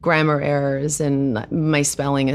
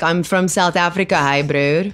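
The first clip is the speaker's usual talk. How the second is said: lightly hammed-up South African accent, breezy and casual; a mild mock South African bro greeting; over-the-top South African accent. Actress mocking how others fake a South African accent. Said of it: "this, like, over-the-top thing".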